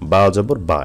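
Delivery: final বা cut short, no stretch; short vowel. Shown as a demonstration. Teacher shows students the short vowel, quick unstretched বা. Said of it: "হরকতের উচ্চারণ তাড়াতাড়ি পড়তে হয়".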